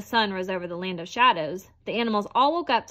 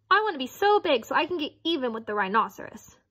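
chattering squirrel; 4 semitones higher than usual. Acted. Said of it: "the squirrel chattered".

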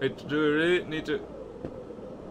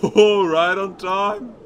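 relieved laughter; 5 dB louder, slower than usual. Real, not acted. Barely makes the jump.

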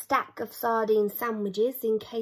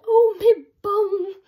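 much higher, louder wailing cry; pained yell; 9 semitones higher, 10 dB louder than usual. Acted. Grim with burning bottom, wailing. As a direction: wail it like it burns. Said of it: "Grim said".

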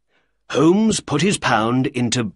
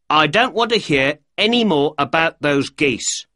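angry shouting; 5 semitones higher than usual. Acted. Shopkeeper shouting down the man asking about geese, angry. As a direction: tell him off, fed up. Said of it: "Breckinridge shouted".

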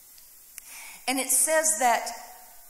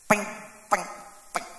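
sissy tapping noise; 5 semitones lower, faster than usual. Retold or imitated. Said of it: "That is a sissy arrow thingy".

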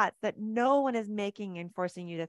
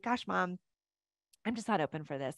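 kind, firm boundary; 5 dB quieter than usual. Shown as a demonstration. Coach models a kind boundary to her mom, gently. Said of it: "you can very kindly say".

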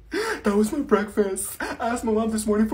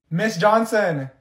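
drawn-out louder call of her name; slow, louder call; 3 dB louder, much slower than usual. Acted. Student calling the teacher a second time, slow and louder. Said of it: "I have to say your name three times".

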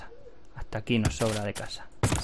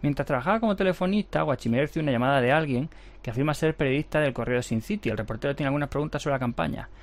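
reading game text; 2 semitones higher than usual. A narrator's reading. Reads the game's event text aloud.

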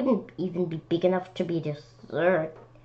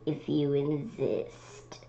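low calm reply; 4 semitones lower, 10 dB quieter, slower than usual. Acted. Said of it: "said the lobster".

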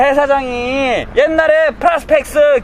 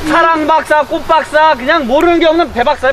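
excited hype; 2 semitones higher, 5 dB louder than usual. Real, not acted. Hyping up friend loudly.

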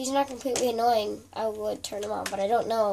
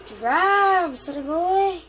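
hammed-up shout; 6 semitones higher, 7 dB louder, much slower than usual. Acted cry in game.

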